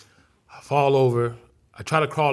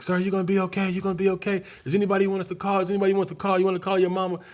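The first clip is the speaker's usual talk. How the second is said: paramedic voice; 6 semitones higher, faster than usual. Retold or imitated. Paramedics asking the injured boy.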